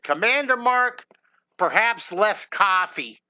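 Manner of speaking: lightly imitated calm painter, slowed on the advice; a gentle, unhurried hint of the TV painter; Bob Ross. Bob Ross gently telling a noisy young host, slow and calm. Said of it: "He said, he said".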